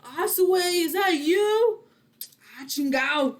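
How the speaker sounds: put-on Mexican accent. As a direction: call out in a playful Mexican accent. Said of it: "do a Mexican accent".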